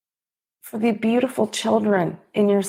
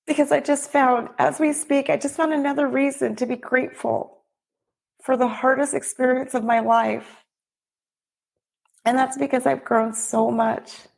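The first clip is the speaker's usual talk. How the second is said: higher, on the edge of crying; close to tears; 5 semitones higher than usual. Real, not acted. Widow moved while telling the conference audience, near tears. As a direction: let the voice rise as tears come. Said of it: "Now I'm gonna cry".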